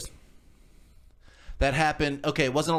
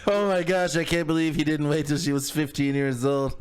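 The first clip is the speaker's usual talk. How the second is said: mock shock; 2 semitones higher than usual. Joins mocking 1950s people.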